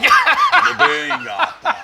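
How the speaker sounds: very high, drawn-out laughing flirt; hammed-up flirt. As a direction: overdo the pickup line for a laugh. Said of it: "aí disse".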